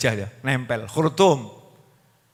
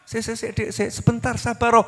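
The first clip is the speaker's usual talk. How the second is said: flustered stammer; 4 semitones higher than usual. Acted. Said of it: "suaminya gelagapan, bingung".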